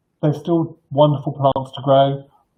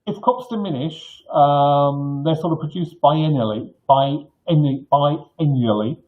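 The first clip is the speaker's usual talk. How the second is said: speaking without dentures; lisping slightly, no teeth in; toothless; slower than usual. Real, not acted. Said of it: "sorry, I haven't got my teeth in".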